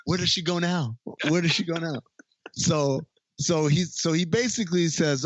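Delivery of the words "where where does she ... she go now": mock-dazed amazement, a bit higher; retold bewildered wonder; stunned amazement. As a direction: act stunned, stumbling on the first word. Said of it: "in, like, amazement".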